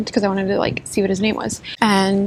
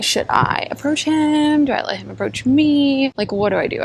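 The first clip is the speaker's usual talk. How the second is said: put-on a flustered girl asking herself what to do; mock dithering; flustered self-talk; 5 semitones higher than usual. Flustered inner debate.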